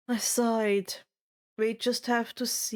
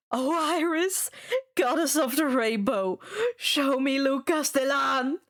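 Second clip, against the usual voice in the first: tearful plea; 3 semitones higher than usual. Acted. Fifth try, close to tears.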